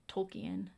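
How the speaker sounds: "Tolkien" in three syllables, like tole-KEE-en; spelling pronunciation. Shown as a demonstration. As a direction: sound out "Tolkien" as spelt, with "-ki-en" split. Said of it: "It looks like Tolkien".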